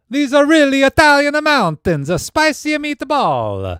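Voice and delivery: very high, booming cartoon Italian; hammed-up Italian accent. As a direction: bellow it as an over-the-top stage Italian. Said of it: "now that is Italian".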